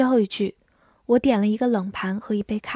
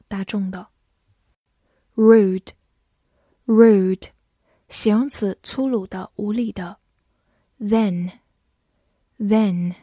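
slow, careful word reading for learners; teacher modelling English words; vocabulary drill; slower than usual. Shown as a demonstration. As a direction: pronounce each headword clearly, twice.

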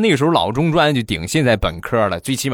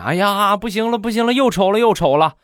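higher-pitched moaning complaint; whining wife; 10 semitones higher than usual. Acted. Wife complains about pimples to husband, higher whining. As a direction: moan about your spots like it's a disaster.

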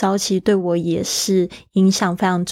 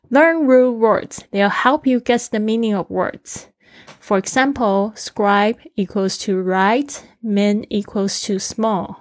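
read aloud slowly. Shown as a demonstration. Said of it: "reads phrase aloud for learners".

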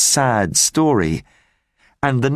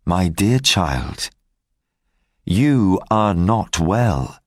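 slow, lower, tender concern; gentle; 3 semitones lower, slower than usual. Acted. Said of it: "took her arm gently".

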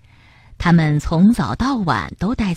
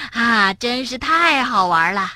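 out of breath; 3 semitones higher than usual. Acted. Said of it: "上气儿不接下气儿地说".

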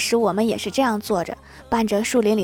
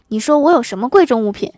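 mock tearful wail; 5 dB louder than usual. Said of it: "我哥霎时间泪奔".

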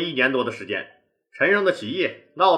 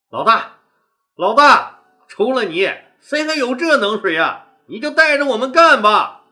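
kneeling men beg louder, voices climbing; begging, louder; 4 semitones higher, 5 dB louder than usual. Acted. Kneeling brothers begging their boss to lead them, louder and insistent. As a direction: plead with him, pushing harder this time.

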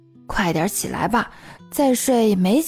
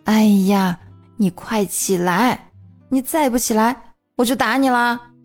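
stern; 3 semitones higher than usual. A narrator's reading. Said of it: "严肃道".

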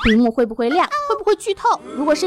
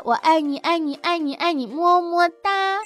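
cutesy; 2 semitones higher, slower than usual. Acted. Cutesy love chant.

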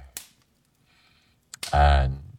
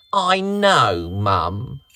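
put-on sheepish boy; 4 semitones higher, 4 dB louder, slower than usual. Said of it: "Tommy replied with a sheepish grin".

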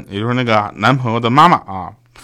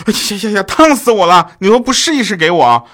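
high, loud mock outrage; yelp, then scold in an acted huff; scalded complaint; 8 semitones higher, 5 dB louder than usual. Girlfriend scolds boyfriend over too-hot water, loud complaint.

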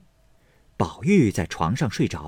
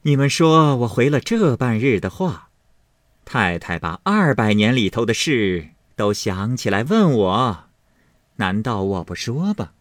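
indignant complaint; 2 semitones higher, 3 dB louder than usual. Acted. Mistress complains aloud to servant women.

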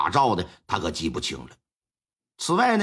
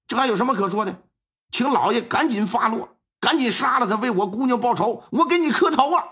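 agitated pleading; 5 semitones higher than usual. Acted. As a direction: push the magistrate hard, building to the last line. 冯志栋激动催促杀人. (激动地催促，越说越响)

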